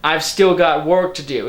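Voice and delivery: mock the line by hitting "still"; stress on still. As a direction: quote it back, pressing on "still". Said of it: "I have a main problem with that last line".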